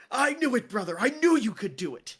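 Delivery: loud, beaming big-brother praise; proud Royce. Acted. Royce hugging his brother, loudly proud. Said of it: "and he goes".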